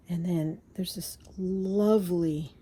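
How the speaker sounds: hushed, awed whisper. Real, not acted. Showing viewers a treasured fabric, an awed whisper. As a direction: breathe it out in awe.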